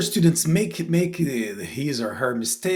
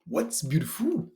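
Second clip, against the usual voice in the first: puzzled listener; 6 semitones higher, 4 dB quieter than usual. Acted. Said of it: "They will say".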